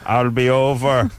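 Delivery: slow stone-grinding gargoyle growl; grinding stone gravel voice. Pretend. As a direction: rumble it out like rock. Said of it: "the gargoyle voice".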